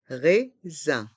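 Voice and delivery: "Raisin" in two separate beats; learner-paced, split "Raisin"; syllable by syllable. Shown as a demonstration. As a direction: break "Raisin" into rai and zin. Teacher breaks word into syllables.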